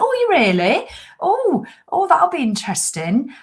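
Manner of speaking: high, mock-surprised squeal of a coach. Life coach misunderstands, sounds surprised.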